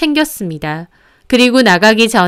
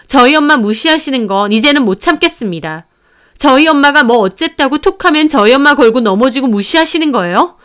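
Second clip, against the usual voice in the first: raised, higher voice full of pent-up grievance; daughter-in-law confronting her in-laws, indignant and raised; indignant outcry; 3 semitones higher than usual. Acted. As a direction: defend her mother, voice rising. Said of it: "울분에 차서 외쳤습니다".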